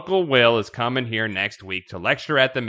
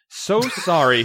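high, loud British apology; hammed-up British dad apologizing; mock British accent; 6 semitones higher, 6 dB louder, slower than usual. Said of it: "in his best British accent".

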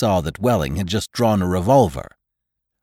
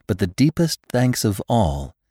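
sweet, grand thank-you from a receptionist; gracious society hostess. Acted. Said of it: "said the hostess".

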